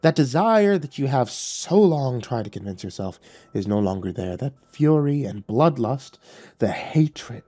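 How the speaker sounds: lightly voiced devil, calm and tempting; coaxing devil. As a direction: tempt him gently to let go. Lucifer coaxes, calmer.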